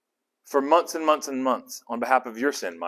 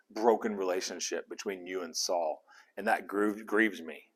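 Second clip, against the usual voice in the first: softer, lower, sorrowful confession; grieving prayer; 5 semitones lower, 7 dB quieter than usual. Retold or imitated. Teacher voicing Samuel's grieving prayer to God, soft and low. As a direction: pour it out like a hurt friend. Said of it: "I think he is saying".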